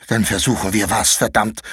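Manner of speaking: put-on angry boy hissing at his friend; hissed. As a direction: spit the words out through a held breath. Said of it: "zischte Konrad".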